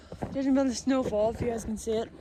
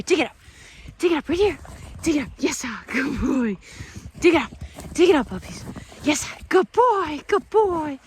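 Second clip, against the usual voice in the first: excited dog praise; 4 dB louder than usual. Real, not acted. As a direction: hype the dog up. Cheering dog to dig.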